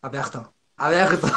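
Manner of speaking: "aberto" with the r pronounced another way; r in "aberto" changed. Retold or imitated. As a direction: show the r of "aberto". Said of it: "falei aberto". (r de "aberto" pronunciado de outro jeito)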